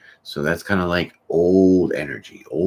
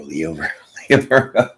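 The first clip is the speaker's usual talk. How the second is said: laughing while repeating. Shown as a demonstration. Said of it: "just rolls off the tongue".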